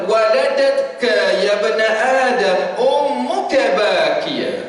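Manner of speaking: slow, measured recitation; recited Arabic. Acted. Preacher reciting a verse to the congregation, slowly. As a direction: intone the verse with care.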